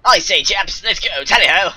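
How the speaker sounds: hammed-up old-fashioned British; rally the chaps in jolly mock British; British accent. Shown as a demonstration. Showing a friend their best British, hammed-up British accent. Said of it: "do your best British accent".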